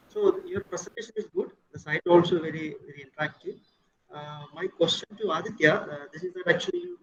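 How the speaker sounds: voice breaking. Real, not acted. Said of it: "Sir, your voice is breaking".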